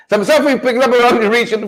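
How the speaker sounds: words spoken through a laugh. Real, not acted. Host laughing off a geography mix-up with the listeners. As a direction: chuckle your way through it.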